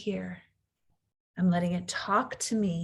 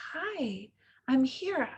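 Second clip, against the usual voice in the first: gentle mom; 4 semitones higher than usual. Retold or imitated. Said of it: "turn toward them and say".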